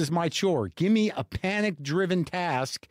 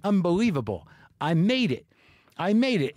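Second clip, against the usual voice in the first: relieved, mildly triumphant replay; elated triumph; 2 semitones higher than usual. Retold or imitated. Traveler congratulating himself after reaching security, elated triumph. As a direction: celebrate making it, rising on the repeat.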